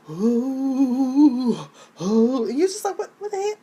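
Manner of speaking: put-on squeaky girlish voice, half-joking; squeaky voice imitation. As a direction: mimic a tiny squeaky singer. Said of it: "And you're talking like this".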